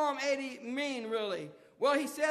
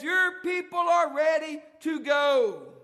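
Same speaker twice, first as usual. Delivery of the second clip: loud, slow preacher's cry on "Your"; shouted proclamation; 2 semitones higher, 7 dB louder than usual. Acted. Preacher shouting the psalmist's cry to the congregation. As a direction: belt it out, stretching each word.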